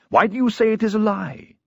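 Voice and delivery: high, heated outburst; indignant cry. A narrator's reading. Brother banging the table at his sister, crying out. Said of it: "he cried".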